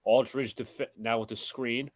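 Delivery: steady broadcast call of the game; live play-by-play. Acted. Host calling the Knicks-Nets game for the stream, play-by-play. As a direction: call the action as it happens.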